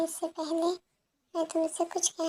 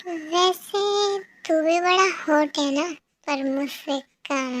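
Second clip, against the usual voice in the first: sassy mermaid; 4 dB louder than usual. Acted. Mermaid boasts about her beauty.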